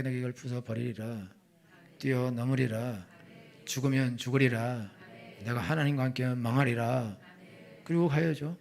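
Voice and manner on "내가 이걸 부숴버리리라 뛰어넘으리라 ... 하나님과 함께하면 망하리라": declaimed vow. Acted. Believer vowing to break through the wall, declaiming. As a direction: proclaim it with long, stretched endings. Preacher models a bold vow.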